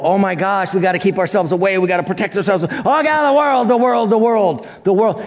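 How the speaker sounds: mock the frightened churchgoer, pitch climbing; mocking fearful Christians. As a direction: panicky worried believer, rising on Oh God. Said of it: "looking at the world as".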